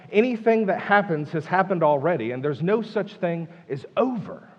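weary singsong litany of complaint; acted frustration, rolling repetitively; frustrated. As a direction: list each endless cycle with mounting mild exasperation. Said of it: "Can you feel his frustration?".

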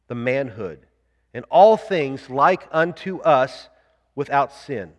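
slow, deliberate creed reading. Real, not acted. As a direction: read it out slowly, phrase by phrase, so listeners can follow. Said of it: "read this real slowly".

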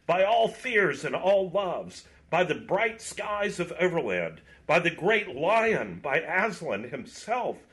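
invoke every power to be freed; solemn adjuration. A narrator's reading. Knight adjures them solemnly.

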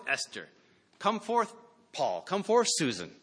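mock summons. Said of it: "he will cry again".

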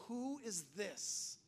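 soft, very slow wonder; in awe. Acted. Disciples after the storm, hushed in awe. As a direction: hush it and stretch it out, awestruck. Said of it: "they're, they're in awe".

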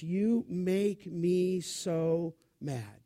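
hint of a fed-up mom; understated cross mother; mild mock scolding mother. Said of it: "Words like this".

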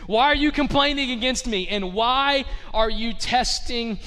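a touch of fed-up leader; exasperated Moses. Acted. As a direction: push it out, challenging the people. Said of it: "Moses replied".

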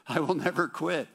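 loud, high ringing vow; proclaiming creed. Retold or imitated. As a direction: shout the oath proudly.

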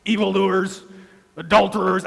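a hint of a proud praying Pharisee looking down on others; smug Pharisee. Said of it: "I'm not sure if he spoke like that".

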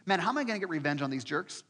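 fuming over being wronged; preacher voicing Paul out for revenge; indignant inner rant. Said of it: "I'm in prison that night thinking".

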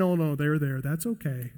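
soft, easygoing brush-off; dismissive shrug. Pretend. Preacher mocks a soft excuse, quiet and easygoing. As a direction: let it slide, no big deal. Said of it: "He's not saying".

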